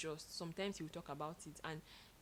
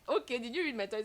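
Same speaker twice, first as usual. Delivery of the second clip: surprised; 5 semitones higher, 8 dB louder than usual. Retold or imitated. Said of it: "So I'm like".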